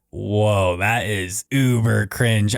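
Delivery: slow, drawn-out cringe; a slow mock groan of embarrassment; cringing. Watching his old videos, a slow embarrassed groan. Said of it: "listen to myself and think".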